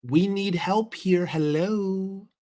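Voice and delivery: slow, drawn-out exasperation; imitated mild anger. Player asking teammates why nobody moves, mildly angry. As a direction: act out a fed-up player, stretching the words. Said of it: "he's getting angry because he's like".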